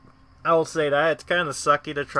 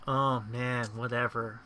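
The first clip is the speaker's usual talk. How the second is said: put-on softer, bored sigh of a teen; bored teenager; 6 dB quieter than usual. Shown as a demonstration. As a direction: shrug it off like a sulky teen. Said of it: "give that whole bored".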